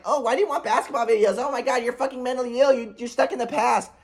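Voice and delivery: mock exasperated complaint; mocking scold. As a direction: mimic a fed-up mom nagging. Retold scolding from his mom.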